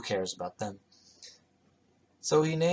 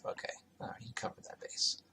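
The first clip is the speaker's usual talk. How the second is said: whispered aside; 14 dB quieter than usual. Real, not acted. Muttered aside while reading.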